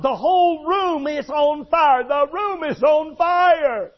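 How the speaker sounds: a dying man crying out that the walls are burning; dying man screaming. Retold or imitated. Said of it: "where he was screaming about".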